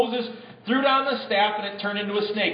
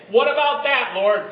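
mock complaint; 4 semitones higher, 4 dB louder than usual. Shown as a demonstration. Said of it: "And everyone say".

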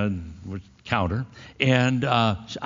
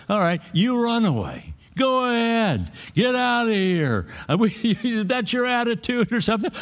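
mother's voice pitched way up, calling a bluff; imitating mother. Preacher imitating his mother calling his bluff, high mock voice.

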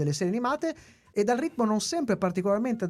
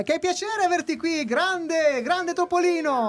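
overexcited host; 7 semitones higher, slower than usual. Acted. Host greeting guest enthusiastically.

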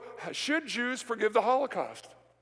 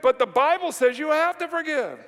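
emphatic preaching; 5 semitones higher, 6 dB louder than usual. Real, not acted.

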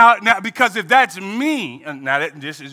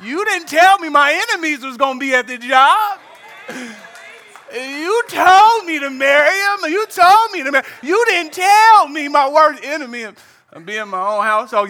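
mock complaint to God; 5 semitones higher than usual. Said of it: "You say".

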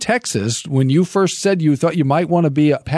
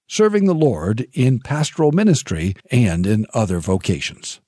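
measured radio host read with falling phrase endings; polished programme intro read; scripted show introduction; 2 semitones lower than usual. Acted.

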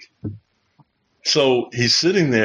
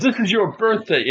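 mock bellow, pitched up; big bellowing guy; 9 semitones higher than usual. Big guy to the birthday man, mock bellow. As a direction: imitate a big man hollering. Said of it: "this guy with the big bellowing voice".

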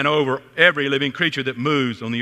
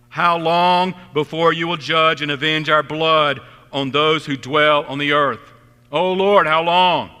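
raised voice, pleading with heaven; impassioned cry; 2 semitones higher, 5 dB louder than usual. Acted. Preacher crying out the martyrs' plea, loudly. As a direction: call it out loud like a lament.

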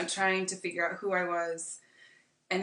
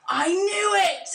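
high, loud, drawn-out mock cry of victory; triumphant drunk; 12 semitones higher, 6 dB louder, slower than usual. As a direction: imitate an overjoyed drunk, stretching it out. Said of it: "it was, like, his happiest moment ever".

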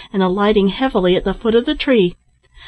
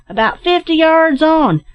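calling out; 8 semitones higher, 4 dB louder than usual. A narrator's reading. Captain directs his searchers from afar, calling out. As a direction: shout directions across a distance. Captain calls back from tree.

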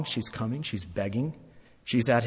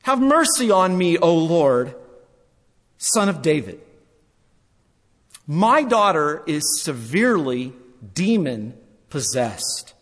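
pleading woman. Acted. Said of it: "cried out to him".

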